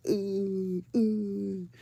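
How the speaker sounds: long drawn-out "ooh"; mock groan of a mom at wits' end; imitated frazzled mother. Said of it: "She was just like".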